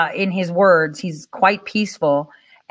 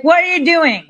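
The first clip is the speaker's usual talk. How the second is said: mock disbelief; 8 semitones higher, 4 dB louder than usual. Samson's people scolding him.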